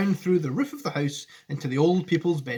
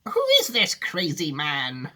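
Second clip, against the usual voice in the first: mild mock scream; slower than usual. A narrator's reading. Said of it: "screamed Grandma Josephine".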